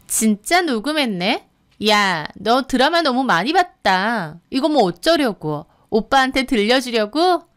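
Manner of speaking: taunting questions full of scorn; contemptuous jeering; mocking, sneering. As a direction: ridicule them as you go. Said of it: "하면서 비웃더니".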